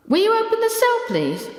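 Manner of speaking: sharp, high, pressing demand; impatient. A narrator's reading. Younger woman pressing the guard, high and impatient. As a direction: make the guard hurry up. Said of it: "asked the younger woman impatiently".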